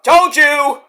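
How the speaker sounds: high, loud, taunting told-you; nagging inner voice. Retold or imitated. Inner voice taunting someone jailed, loud high gloat. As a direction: gloat like a smug little voice in your head. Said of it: "my voice going".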